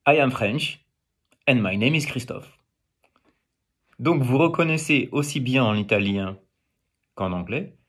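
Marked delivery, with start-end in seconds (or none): 0.1-2.6 English sentence with a French tune; English said with a French melody; English carried on French intonation. Shown as a demonstration. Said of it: "Ou bien".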